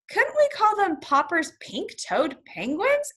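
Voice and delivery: high, slow, lightly voiced theater owner; a hint of a showman pitching a name; Greenbaum's suggestion. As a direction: draw the question out high and slowly. Greenbaum proposes an act name.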